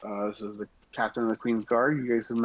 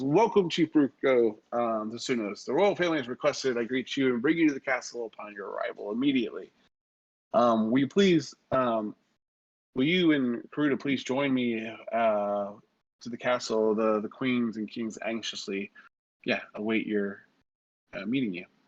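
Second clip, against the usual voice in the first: plain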